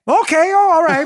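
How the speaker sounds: high, hammed-up "oh, all right"; mock surprise. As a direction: fake being impressed. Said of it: "would be".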